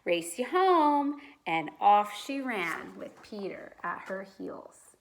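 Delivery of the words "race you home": excited. A narrator's reading. Judy excited, eager to play.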